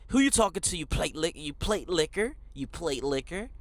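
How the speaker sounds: lightly imitated cocky American jerk; mock a rude American with a funny accent; American asshole. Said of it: "more of an American just asshole".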